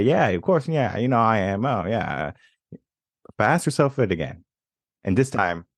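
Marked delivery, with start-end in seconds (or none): 0.0-2.3 higher, tossed-off confident answer; quick breezy yes. Shown as a demonstration. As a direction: brush it off without thinking. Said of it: "you might say".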